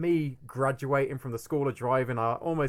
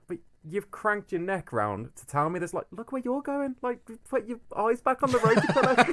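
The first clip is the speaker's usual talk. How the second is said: mock road rage; 8 semitones higher than usual. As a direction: rant back at the cyclist, hammed up. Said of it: "It's like".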